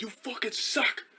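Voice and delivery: high, drawn-out mocking heckle; mock heckler. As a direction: jeer slowly in a high imitation voice, held back in volume. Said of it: "he was heckling me".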